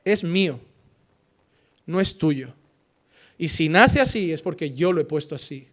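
low, soft, grave voice of God answering. Acted. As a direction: speak as God, quiet and heavy with authority. God answering about a child. (voz de Dios, grave y baja)

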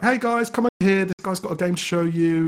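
high, bright call across the booth. Retold or imitated. At the GDC booth, calling the Xbox team over to meet a developer, high call-out. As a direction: hail the team over from across the room, pitch way up.

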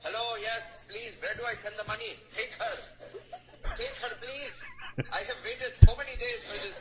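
hushed voice into the phone; soft pleading on a jail call; payphone call. Pretend. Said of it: "collect call from Boston County Jail".

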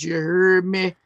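put-on New Orleans accent catchphrase. Shown as a demonstration. Showing off the accent his friends hate, New Orleans accent. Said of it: "I do my New Orleans accent".

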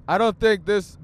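ordinary delivery

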